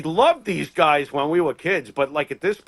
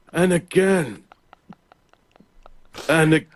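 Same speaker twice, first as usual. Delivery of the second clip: slow, lightly voiced wrestler; a hint of an old wrestler, drawn out; Greg Valentine impression; slower than usual. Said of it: "that's his impression of Greg the Hammer Valentine".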